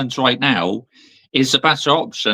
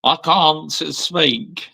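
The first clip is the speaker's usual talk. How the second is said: Mark Goldbridge impression; 3 semitones higher, much slower than usual. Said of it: "That is from Mark Goldbridge".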